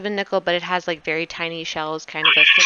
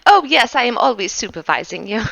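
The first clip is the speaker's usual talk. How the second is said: servant voice; 2 semitones higher, faster than usual. Acted. Servant Anton eyes rolled back.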